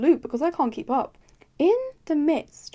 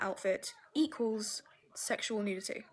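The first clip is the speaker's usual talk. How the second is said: whisper; 3 semitones lower, 11 dB quieter than usual. Real, not acted. Whispered punchline of formula again.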